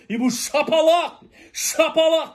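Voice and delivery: chuckling while retelling the slaps; gleeful laughing brag; laughing through it. Retold or imitated. Gleefully retelling slapping someone.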